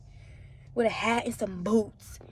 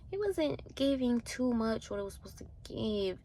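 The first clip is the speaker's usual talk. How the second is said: whispered judgement; 2 semitones higher, 7 dB quieter than usual. Retold or imitated. Judging girls, voiced under breath.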